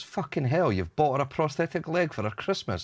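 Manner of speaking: mock disbelief from the pub lads; shocked mates.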